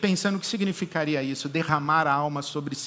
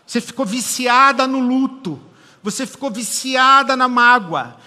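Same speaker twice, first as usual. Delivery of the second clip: louder, driving sermon voice; full-force preaching; 8 semitones higher, 8 dB louder than usual. Acted. Pastor confronting listeners hooked on their grief, loud and driving. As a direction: press every word home. Preaching about addiction to sorrow.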